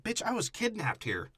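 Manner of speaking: high, indignant hammed-up woman's voice; mock angry heroine. Friend voices the heroine snapping at Wahlberg, high mock indignation. Voicing the female lead, angry.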